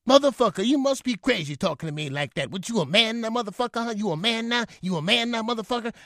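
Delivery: father taunting his son in the hallway, furious and high; raging father. Retold or imitated. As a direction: menace the boy like an abusive father. Father raging before strangling son.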